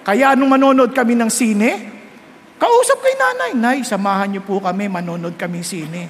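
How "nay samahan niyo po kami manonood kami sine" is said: sheepish request. Retold or imitated. Asking mother to come along.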